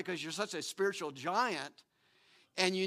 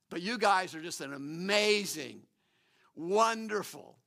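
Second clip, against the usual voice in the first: sarcastic praise. Retold or imitated. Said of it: "he's being sarcastic here".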